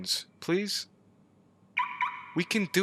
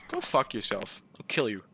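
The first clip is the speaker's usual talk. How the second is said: hushed, breathy threat; whispered curse; 8 semitones lower, 5 dB quieter than usual. Real, not acted. Player whispering a curse at the monster. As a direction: hiss it under your breath.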